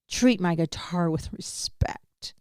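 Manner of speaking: slow, hushed whisper; whispered quote. Retold or imitated. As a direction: breathe it out slowly, barely voiced. Quoting her demand, whispered.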